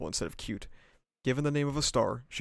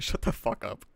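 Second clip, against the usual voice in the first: whispered retort. Real, not acted. Snapping at himself after joke.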